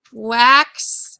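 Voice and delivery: "Waxing" split slowly into wax, pause, ing; syllable by syllable. Shown as a demonstration. Teacher dictating a word to write, syllable by syllable. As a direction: draw out each syllable of "Waxing" separately.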